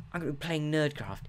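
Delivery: mock nerdy presenter; Jemmy Nerd. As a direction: announce it like a hammed-up nerd host. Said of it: "I always go into the Jemmy Nerd voice".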